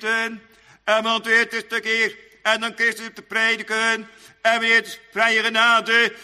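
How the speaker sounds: loud, high pulpit declamation; forceful preaching. Real, not acted. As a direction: intone it forcefully, phrase by phrase.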